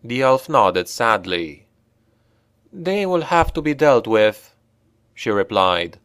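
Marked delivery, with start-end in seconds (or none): 2.7-4.5 higher, lightly voiced elf woman; a hint of a sad, higher elf. A narrator's reading. Elf telling Brunner about the guards, lightly higher voice.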